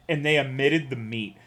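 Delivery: normal talking voice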